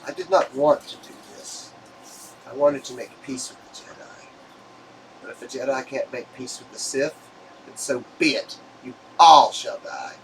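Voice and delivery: a dark lord losing patience; Sith villain. Acted. GM voices Sith villain speech.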